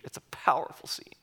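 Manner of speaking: hushed awe in a whisper. Real, not acted. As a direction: drop to a whisper for weight. Preacher hushes for effect.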